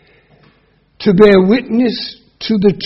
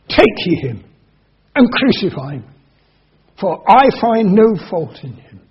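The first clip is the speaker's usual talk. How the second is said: lightly voiced haughty governor; a hint of Pilate looking down on them; 4 dB louder than usual. Pilate dismissing the Jews, a touch of haughtiness. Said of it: "very, very haughty voice".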